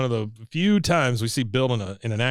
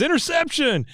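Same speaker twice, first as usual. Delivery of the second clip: high stretched announcer cry; announcer call. Retold or imitated. Retelling the game announcer again: high stretched yell. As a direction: belt it out like the PA guy. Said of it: "he says".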